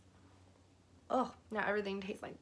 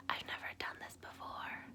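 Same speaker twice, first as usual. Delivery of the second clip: soft breathy whisper in his ear; sultry whisper; 13 dB quieter than usual. Retold or imitated. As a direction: whisper it trying to sound sexy. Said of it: "trying to be all sexy".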